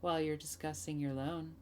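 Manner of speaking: soft, unhurried character voice; gentle, measured hostess voice; soft-spoken hostess. Acted. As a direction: offer it quietly and slowly.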